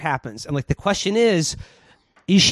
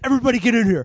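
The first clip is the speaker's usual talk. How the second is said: retold calling out; 7 semitones higher, much faster than usual. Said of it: "he's like".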